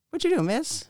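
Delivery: high, loud mock holler across a road. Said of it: "he hollered across the road".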